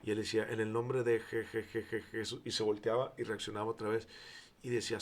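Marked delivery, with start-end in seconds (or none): 0.5-2.4 stammering on Jesús. Retold or imitated. Possessed man cannot say Jesús, mild stutter. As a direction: choke on the name Jesús. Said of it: "un demonio no puede hablar de Jesucristo".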